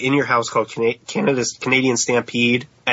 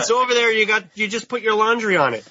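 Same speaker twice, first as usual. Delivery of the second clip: higher mock Canadian wife nagging; bad Canadian accent; 8 semitones higher than usual. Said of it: "our terrible Canadian accents".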